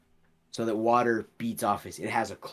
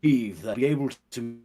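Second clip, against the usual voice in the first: higher, louder sea captain calling over the storm; ship captain voice; 3 semitones higher, 4 dB louder than usual. Acted. Captain at the wheel warning the passenger about the storm, loud weathered call. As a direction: shout it over the raging wind like a captain at the wheel. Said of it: "the voice that rings through goes".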